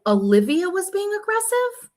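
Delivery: high, stunned disbelief; squeaky incredulous repeat of her words; disbelieving echo. Retold or imitated. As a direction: echo the accusation like you can't believe it. Shocked reply quoting friend's claim.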